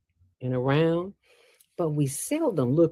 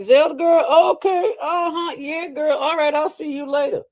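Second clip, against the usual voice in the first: high, hammed-up awkward friend backing away from bad breath; a friend politely escaping bad breath, said high and mock-polite; mock polite brush-off; 11 semitones higher, 6 dB louder than usual. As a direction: act like you are edging away politely. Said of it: "they'll be like".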